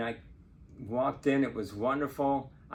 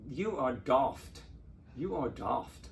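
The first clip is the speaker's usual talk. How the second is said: imitated British accent, vowel drawn out in daft; slower than usual. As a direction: quote the Brit in a British accent. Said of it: "with that wonderful British accent".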